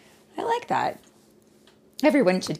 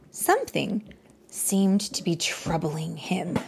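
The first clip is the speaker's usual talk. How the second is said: put-on bright, lively read-aloud voice for a child; story narration. A narrator's reading. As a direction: tell it like a bedtime story.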